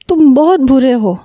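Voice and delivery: slow, tearful reproach with a hint of sobbing; mildly tearful, drawn-out accusation; crying. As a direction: say it through light tears. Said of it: "روتے ہوئے بولی".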